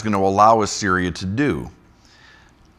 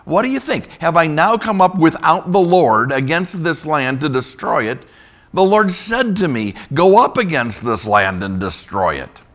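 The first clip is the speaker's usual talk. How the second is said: much higher, louder proclaiming voice; scripture reading; 8 semitones higher, 6 dB louder than usual. Acted. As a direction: boast as the envoy. Reads envoy's boast aloud.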